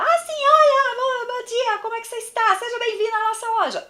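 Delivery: mock the overexcited clerk, way up high; exaggerated shrill greeting. Shown as a demonstration. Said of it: "extremamente, é, incomoda".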